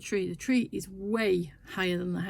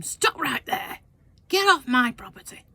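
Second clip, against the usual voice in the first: higher, loud stop command; firm warning; 6 semitones higher, 6 dB louder than usual. Retold or imitated. Husband ordering the advancing worker off, loud firm command. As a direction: plant your feet and order him off. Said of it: "my husband says to him".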